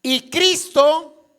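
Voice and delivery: loud, high and very slow proclamation; proclaimed. Acted. Preacher to congregation, proclaiming Hebrews: loud, high and slow. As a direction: ring out the verse opening, slowly. Reading scripture aloud to congregation.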